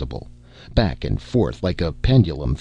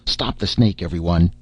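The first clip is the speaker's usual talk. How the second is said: yell. Acted. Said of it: "yelled Brunei".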